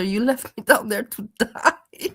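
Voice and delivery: slow, drawn-out teasing imitation; mimicked guilt trip with a laugh; mock accusation. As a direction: stretch it out dramatically, amused. Listener mimics the mother's accusation.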